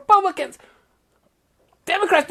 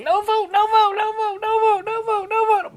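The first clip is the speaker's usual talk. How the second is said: mock whining; 4 semitones higher than usual. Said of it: "They've been whining and whining".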